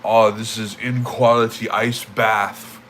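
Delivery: mocking a snob. Chat troll mocked for judging an ice bath, snooty slow sneer. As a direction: sneer it out like a know-it-all. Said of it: "and he was like".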